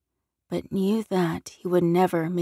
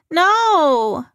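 put-on high, loud, panicked child's cry; 10 semitones higher, 9 dB louder than usual. A narrator's reading. Little girl caught by a wolf, screaming in terror. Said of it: "the girl cried".

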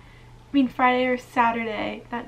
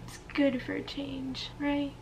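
whispering; 7 dB quieter than usual. Real, not acted. Whispered self-reassurance.

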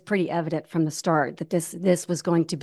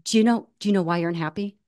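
put-on quick, half-hearted Japanese accent; lightly attempted Japanese accent on a question; 3 dB louder, faster than usual. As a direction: imitate a Japanese runner's accent, briskly. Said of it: "he said it in his accent".

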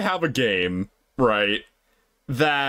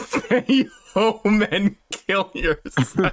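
laughing read; 4 semitones higher, slower than usual. Real, not acted. Reading the absurd option aloud.

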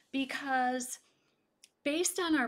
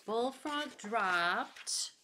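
suspense pause; 4 dB quieter, much slower than usual. Shown as a demonstration. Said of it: "Now think".

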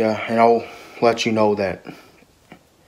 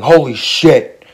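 drawn-out, louder mock yell; imitated yelling; 3 semitones higher, 5 dB louder, slower than usual. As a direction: imitate a rider's slow yelled curse. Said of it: "they were all yelling".

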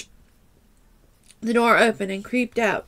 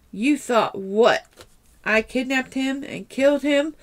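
incredulous; 3 semitones higher than usual. Acted. Incredulous accused man.

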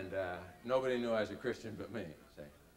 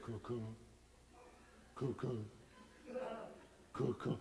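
heartbeat; 10 dB quieter than usual. Retold or imitated. My heart went from here.

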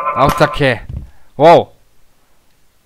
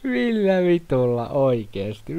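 slow, laughing through the words; laughing disbelief; 4 semitones higher, slower than usual. Real, not acted. Gamer laughing at an absurd obstacle, slow laughing disbelief. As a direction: drag it out while laughing.

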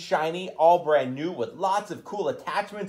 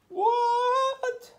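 shocked what. Real, not acted. Reacting to trapped bulldozer.

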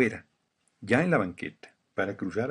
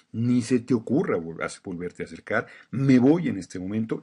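yelling at soldier; 4 dB louder than usual. Retold or imitated. Retelling how he shouted at the soldier who grabbed him, angry raised voice. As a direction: push back hard, voice up, not backing down. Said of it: "Y le empecé a gritonear".

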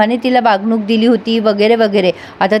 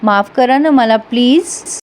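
slow pleading apology; slower than usual. Retold or imitated. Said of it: "सागर कान धरून तिची माफी मागतोय".

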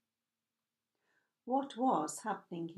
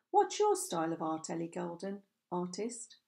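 sarcastic. Acted. Harry teasing Ellie by echoing her name, mildly sarcastic. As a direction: lightly tease her own words back at her. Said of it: "his tone sarcastic again".

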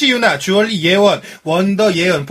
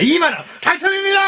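booming prize announcer; 9 semitones higher than usual. Acted. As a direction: announce the prize like a game show.

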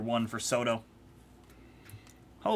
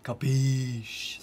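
mafia Italian try. Acted. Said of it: "Do I have to say it like that?".

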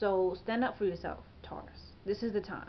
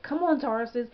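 exasperated pep talk, pushed louder at the start; real mild exasperation; frustrated; 2 semitones higher, 5 dB louder than usual. Real, not acted. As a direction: plead with them in frustration. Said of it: "it kinda frustrates me".

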